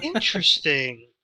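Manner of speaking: ambiguous, lingering reaction; insincere-sounding interest. Real, not acted. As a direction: stretch out "Interesting" so it could pass for sarcasm. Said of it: "Like, no, genuinely".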